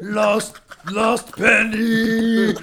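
high, very slow hammed-up lament; mock wail. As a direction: stretch each word in a silly wail. Mocking friend's stereotype voice.

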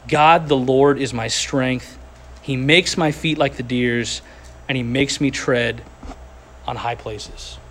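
slow, solemn scripture reading with weight. Acted. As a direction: read the verses out as a proclamation. Reads Habakkuk scripture aloud.

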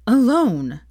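breathless, whispered final word. Acted. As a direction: gasp it out in a whisper. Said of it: "another gasp".

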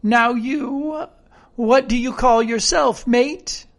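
eager castaway character. Acted. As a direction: quiz a new mate in sailor talk.

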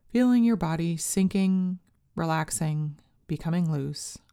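calm, unhurried meditation guide voice; guided meditation. Acted. Leads a meditation script.

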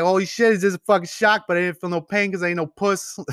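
a hammed-up Boston lobster diver; Boston accent impression. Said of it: "I can't do a Boston accent".

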